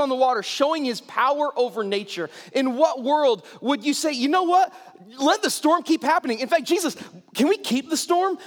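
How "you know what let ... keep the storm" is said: mock eagerness. Mocking Peter's eager request.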